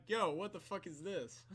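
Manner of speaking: slow, incredulous retold outburst; acted disbelief. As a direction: play a stunned guest, half laughing. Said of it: "he's like".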